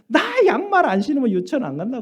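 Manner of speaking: put-on cranky child. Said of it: "짜증이 나가지고".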